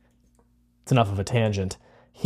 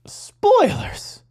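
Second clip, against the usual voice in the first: whispered. Acted. Teasing aside.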